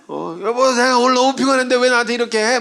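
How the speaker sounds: whiny mock temper at his wife, rising high; hammed-up husbandly irritation; losing temper. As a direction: act out snapping at your wife after a tiring day. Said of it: "제 아내한테 막 승질 내세요".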